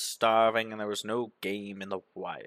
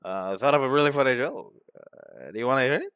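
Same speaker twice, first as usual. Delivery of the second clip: a hint of a rambling drunk; drunk man. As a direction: slur along like a tipsy man with a joke. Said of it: "a drunk man who says".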